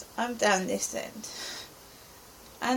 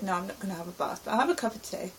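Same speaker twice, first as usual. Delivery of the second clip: hurried retold refusal; 3 semitones lower, 3 dB quieter, much faster than usual. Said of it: "So I said".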